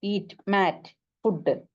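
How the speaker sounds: "eat", "mat", "food" as separate stressed beats; teacher picking out "eat", "mat", "food" singly; stressed words. Shown as a demonstration. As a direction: give "eat", "mat" and "food" one beat each. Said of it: "stress കൊടുക്കേണ്ട വേർഡുകൾ നോക്കിയേ".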